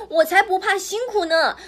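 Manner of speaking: determined little pig. A narrator's reading. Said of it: "老三这个猪小弟他就说".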